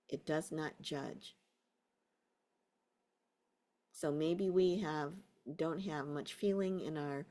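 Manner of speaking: unhurried guiding voice with long pauses; guided meditation. Real, not acted. Teacher settling a class into a body scan, guided meditation. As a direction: ease them into a body scan. Guides attention through feet and toes.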